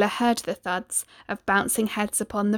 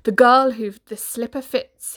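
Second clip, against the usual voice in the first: cried out; 2 semitones higher, 7 dB louder than usual. Acted. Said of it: "he cried".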